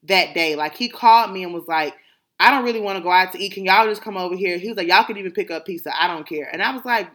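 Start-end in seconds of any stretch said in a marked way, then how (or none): 2.4-4.6 rushed, grumbling dad brushing off dinner plans; dad with attitude. Retold or imitated. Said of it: "he had such an attitude". 4.9-6.5 dad with attitude. Retold or imitated. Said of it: "he had such an attitude".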